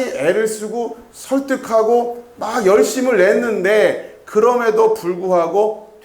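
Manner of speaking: earnest, exasperated effort. Acted. Teacher voicing God who tried hard to persuade, earnest exasperation. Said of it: "어떤 느낌이 있냐면".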